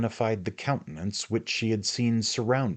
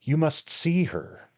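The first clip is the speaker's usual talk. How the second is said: eager invitation; 10 semitones higher, 5 dB louder than usual. Acted. Magnus eager to show fiancée.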